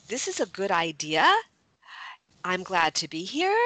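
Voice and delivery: each sentence rising at the end like a question; uptalk. Shown as a demonstration. Coach showing women the uptalk habit, rising ends. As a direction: end "idea" and "here" on an upward lilt. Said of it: "This is not a time to use uptalk".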